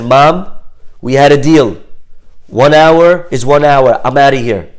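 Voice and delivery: loud mock-teenage refusal; acted teenage defiance. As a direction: play a daughter firmly standing on the deal. Daughter defiantly ending the deal.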